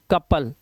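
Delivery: कपल with short uh, "kup-pal"; short "a" sound. Shown as a demonstration. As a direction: model कपल with अ, no "ou". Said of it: "अ की आवाज".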